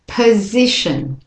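slow, careful "position" with weak first and last syllables; model pronunciation. Shown as a demonstration. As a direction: say "position" slowly, stressing the middle syllable. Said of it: "Say the words with me".

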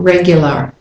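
American regular with an r at the end; American pronunciation. Shown as a demonstration. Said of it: "if you're an American".

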